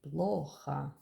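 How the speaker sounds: Плохо with stress on ПЛО and the final O said as A; stress on first O. Shown as a demonstration. Teacher drilling the stress in Плохо. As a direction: hit the first syllable of Плохо. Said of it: "the second O became A because".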